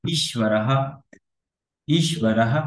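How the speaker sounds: ঈশ্বরহ as "eesh-va-ra-ha"; visarga as h. Shown as a demonstration. Teacher showing the visarga to learners, ঈশ্বরহ with final h. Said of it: "হয়ের মতো উচ্চারণ করতে হয়".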